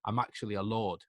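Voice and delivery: soft, low stammered apology, retold; small, halting voice of someone owning up; meek apology. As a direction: apologize quietly, as if hearing yourself from outside. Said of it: "my own voice going".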